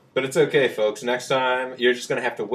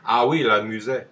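put-on French accent; 4 dB louder than usual. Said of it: "French accent the whole time".

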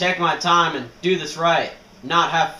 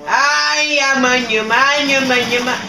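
high, loud, chanted yelling; wild battle yell; 8 semitones higher, 5 dB louder, slower than usual. Real, not acted. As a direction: holler the syllables in a frenzy. Wild yelling during game fight.

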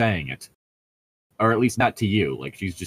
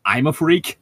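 higher and louder, "freak" rising; rising chagrin; 6 semitones higher, 4 dB louder than usual. A narrator's reading. Bella asking Edward if she's a freak, rising chagrin. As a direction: let it climb into an upset question. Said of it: "her voice rising with chagrin".

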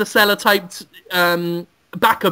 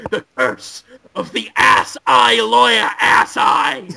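hammed-up curse proclamation. A sorcerer booming his curse at the lawyer, hammed up.

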